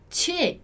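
"che" said as "tche"; som do C E. Shown as a demonstration. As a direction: say "che" with a tch sound. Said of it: "o C E vai ser sempre o som de". ("che" com som de tchê)

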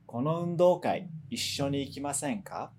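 invitation losing force towards "ikimasen ka"; descending intonation. Shown as a demonstration. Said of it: "vai perdendo um pouquinho de força".

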